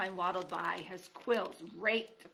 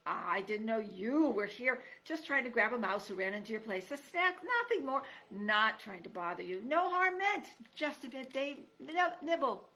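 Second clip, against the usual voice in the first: fox wheedling to the porcupine; sniveling fox; 3 semitones higher, 4 dB louder than usual. Acted. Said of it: "a voice that was, at best, sniveling".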